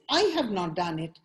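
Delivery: "I" picked out above the other words; stress on I. Shown as a demonstration. Coach explaining what the emphasis means, stressing "I". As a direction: put the weight on "I" to shift blame. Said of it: "but somebody else have done it".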